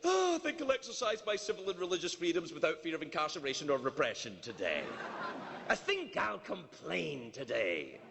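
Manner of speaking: mock waking-up voice, trailing downward; waking-up citizen. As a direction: play someone greeting the day with a long, easy sigh of a line. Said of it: "You wake up in the morning and you're like".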